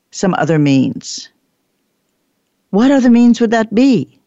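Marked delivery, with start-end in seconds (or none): 2.7-4.2 raised, louder baffled question; mock bafflement; puzzled participant. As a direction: ask it like a confused trainee.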